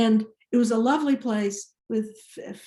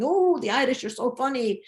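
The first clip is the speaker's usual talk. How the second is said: Irish brogue comedian; 3 semitones higher, faster than usual. Retold or imitated. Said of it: "roared all these jokes in this Irish brogue".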